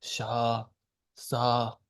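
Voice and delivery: sha and sa said low. Shown as a demonstration. Teacher demonstrating the low tone, low pitched. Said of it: "Low is".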